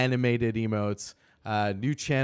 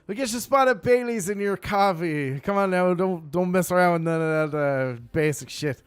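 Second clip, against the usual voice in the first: louder, higher mock English accent; put-on English accent; 6 semitones higher, 5 dB louder than usual. Streamer urging Irish cream into coffee in a mock English accent. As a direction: lay on a playful English accent. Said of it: "I don't know why I went English".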